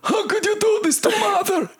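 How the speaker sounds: dramatic ant shout. Pretend.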